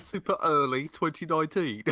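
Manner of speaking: echoing a mock English accent through laughter; laughing, overdone English "twenty noineteen"; put-on English accent. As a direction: exaggerate your English accent, amused. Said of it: "I don't know why I'm doing an accent".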